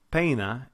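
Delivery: clearly separated e and i in "Pena"; Spanish vowel glide in "Pena". Shown as a demonstration. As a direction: say "Pena" with the two parts of ei kept distinct. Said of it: "more of a distinction between those two vowel sounds in the Spanish".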